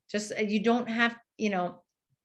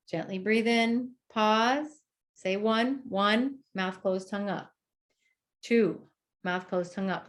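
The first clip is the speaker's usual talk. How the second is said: counting cue demo. Shown as a demonstration. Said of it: "You can say".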